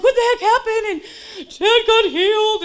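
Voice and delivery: very high, loud shriek imitating mom; mom's stunned outburst. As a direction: mimic her shouting, pitch shot way up. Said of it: "she's just like".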